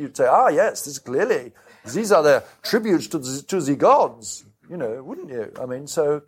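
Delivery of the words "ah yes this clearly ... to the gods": put-on a light, vague pan-European accent for a visitor from Mars; lightly sketch a pan-European accent, nothing overdone. Martian visitor admiring scarecrows, in a light pan-European accent. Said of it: "let's do it as a sort of, pan-European".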